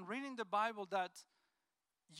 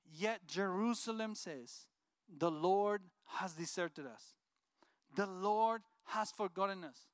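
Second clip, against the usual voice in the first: scripture reading; 3 dB louder than usual. Acted. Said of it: "It says".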